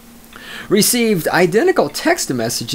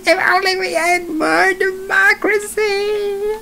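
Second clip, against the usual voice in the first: high, laughing sarcastic wail; laughing mockery. Real, not acted. Host mocking voters between laughs, high laughing wail. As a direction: choke out the words through laughter.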